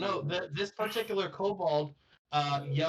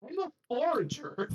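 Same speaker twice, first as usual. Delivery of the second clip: native forager; 12 semitones higher than usual. Acted. GM voices native, high pitch.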